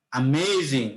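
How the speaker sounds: "অ্যামেজিং" with a lifted, stretched middle syllable; stressed key word. Shown as a demonstration. Teacher offers students another answer, stress on "অ্যামেজিং". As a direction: lean hard on the second syllable of "অ্যামেজিং". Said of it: "একটু stress দিব".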